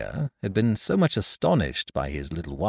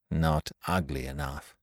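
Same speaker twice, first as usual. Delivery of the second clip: low grumble; 5 semitones lower, 7 dB quieter than usual. Acted.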